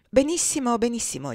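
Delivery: airy, mocking approval, starting high; careless mockery. A narrator's reading. Master brushes off Adolfo's prepared speech, careless and mocking. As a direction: wave it off with light mockery. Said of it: "con l'aria solita di noncuranza e di beffe".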